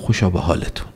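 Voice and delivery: soft, low quoted aside; quietly said. Retold or imitated. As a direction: say it under your breath, as if retelling. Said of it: "آهسته گفت". (نقل قول آهسته و زیر لب)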